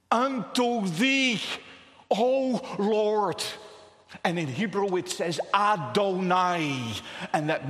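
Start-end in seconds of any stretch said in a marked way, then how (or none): 0.1-3.4 loud, raised cry to God; slow, forceful appeal in prayer. Acted. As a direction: call out to the Lord with full force. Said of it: "he cries out".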